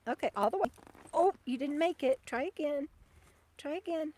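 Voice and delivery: soft, coaxing talk to a dog; soft pet talk. Real, not acted. Owner coaxing her dog Bandit up a jump, soft and tender. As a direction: gently praise and coax the pup.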